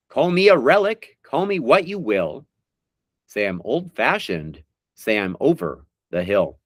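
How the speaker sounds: slow, drawn-out recital of song lyrics; dramatic lyric reading. Acted. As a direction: read each line like a heartfelt poem. Reads lyrics as quiz clues.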